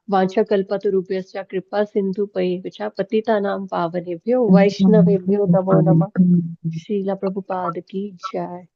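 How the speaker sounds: formal chanted-style homage; Sanskrit prayer recitation. Real, not acted. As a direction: recite a familiar prayer of respects.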